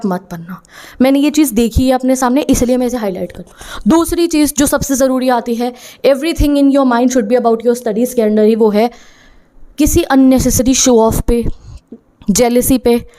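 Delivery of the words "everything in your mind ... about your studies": very slow and deliberate; slow emphatic motto. Shown as a demonstration. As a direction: drive the rule home word by word. Teacher quotes her own rule.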